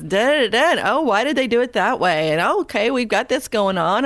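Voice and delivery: imitating a chatty co-worker's running self-commentary; musing sing-out "hmm", then idle mock muttering to oneself; thinking out loud. Imitating older co-worker narrating her computer work, mock thinking-out-loud. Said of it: "she says it out loud".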